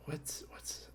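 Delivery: under-the-breath whisper while searching for a name; a real murmured whisper, memory blank. Real, not acted. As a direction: whisper it to yourself, trying to remember. Groping for a wrestler's name.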